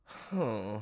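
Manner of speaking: long weary exasperated hmm; exasperated sigh. Acted. Ploy answering Nikali's greeting, exasperated sigh. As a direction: sigh it out, fed up. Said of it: "an incredibly exasperated sigh".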